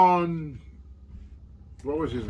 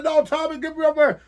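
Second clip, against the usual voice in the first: higher, louder frantic begging; retelling his own panic to his friend, higher and louder; panicked plea; 10 semitones higher, 3 dB louder than usual. Retold or imitated. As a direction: beg to be driven away, half laughing at yourself. Panicked retold plea in car.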